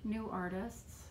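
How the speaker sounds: talking while chewing gum; words around a wad of gum. Real, not acted. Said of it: "sorry, I'm chewing gum and that's terrible".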